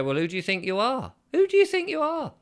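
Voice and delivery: rising to a high indignant cry; mock indignant. Laughing off bossy letters, mock indignant yell. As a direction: puff up and challenge them.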